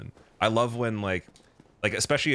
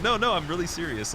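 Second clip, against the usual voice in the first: mock earnest troll; 11 semitones higher than usual. Retold troll reply.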